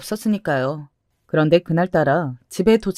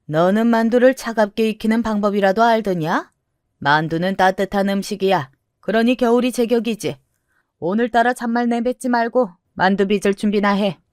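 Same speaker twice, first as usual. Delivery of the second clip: scolding grandmother; 3 semitones higher than usual. Acted. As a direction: order the grandchild to work, as a grandmother. Voices the grandmother.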